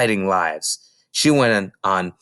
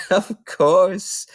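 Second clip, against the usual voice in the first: higher, hesitant kindly librarian; concerned librarian thinking aloud; librarian Mrs Phelps; 8 semitones higher, 3 dB louder than usual. Acted. Mrs Phelps worrying about Matilda, hesitant librarian voice.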